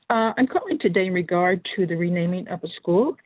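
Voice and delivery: over the phone line; phone speaker. Real, not acted. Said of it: "can you hear me on the phone".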